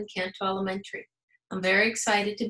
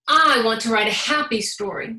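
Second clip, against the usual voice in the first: eager; 7 dB louder than usual. Acted. Birthday pencil's eager line.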